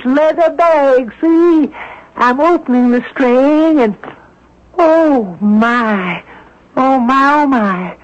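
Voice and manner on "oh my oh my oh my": breathless gasping wonder; amazed. Acted. Old woman finding the diamonds, awed. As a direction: gasp at the sight of the jewels. Opening the bag, finds diamonds.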